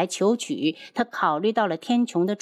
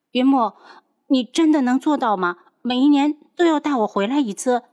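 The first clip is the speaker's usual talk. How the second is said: hopeful; 4 semitones higher, 4 dB louder than usual. Acted. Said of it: "眼中闪着期待".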